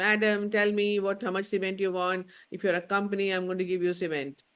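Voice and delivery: shouting loudly at the very top of her lungs. Recounting phoning the cement factory where a girl answered, imitating a girl shouting loudly. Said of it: "shouting on the top of her voice".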